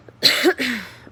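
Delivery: sore, strained cough after surgery; painful cough. Real, not acted. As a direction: cough that hurts. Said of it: "Oh, it hurts to cough".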